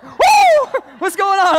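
high, loud startled cry; startled yelp. Retold or imitated. Pastor reenacting his fright at the toy, high loud yelp. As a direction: jump like something spooked you. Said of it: "I'm like".

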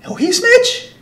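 high, loud incredulous questions; mock shocked. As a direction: imitate a guy whose jaw dropped. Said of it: "jaw just dropped".

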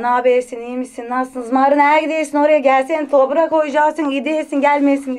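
lightly voiced Thracian migrant accent, Bulgarian-Turkish vowels; a hint of Thracian migrant Turkish, gidiyorsun as ideesin. Shown as a demonstration. Guest demonstrating her migrant family's Thracian accent, lightly. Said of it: "Trakya ile karışıklı bir aksan var".

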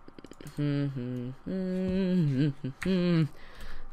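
long closed-mouth laugh; drawn-out chuckle. Real, not acted. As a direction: chuckle to yourself after a scare. Laughs after surviving the fight.

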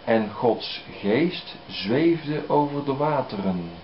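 slow, measured Bible reading; unhurried reading from the pulpit; scripture reading. Acted. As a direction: read it out with solemn weight. Reads Genesis aloud.

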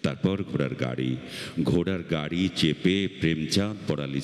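slow, measured recital with long pauses; poem recitation. Acted. Reciter recalls childhood smoke for festival audience, measured poem recitation. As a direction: recite it as a memory, pausing after each phrase.

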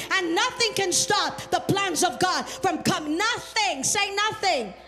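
driving, emphatic sermon delivery; full-force preaching. Real, not acted. Preacher urging the congregation to keep believing God, emphatic. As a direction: preach it with insistent, repeated punches.

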